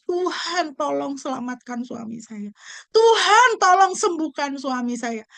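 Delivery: mock tearful plea, voice breaking up high; crying prayer. Wife praying for her sick husband, tearful cry. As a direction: beg God through tears. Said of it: "Dia menangis".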